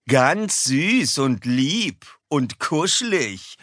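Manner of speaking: slow, sneering singsong; mocking. A narrator's reading. Kaspar mocking the dogs, slow and sneering. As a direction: drag it out with scorn. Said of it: "spottet Kaspar".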